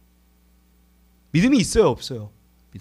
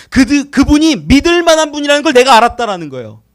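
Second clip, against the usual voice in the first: louder restated; 4 semitones higher, 9 dB louder than usual. Real, not acted.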